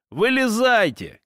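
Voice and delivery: shout. A narrator's reading. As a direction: call them out of hiding. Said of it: "крикнул один из них".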